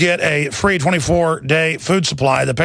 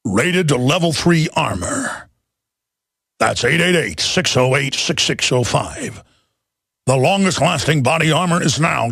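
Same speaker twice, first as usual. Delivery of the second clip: Optimus Prime voice; 2 semitones lower than usual. Pretend. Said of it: "in the Optimus Prime voice".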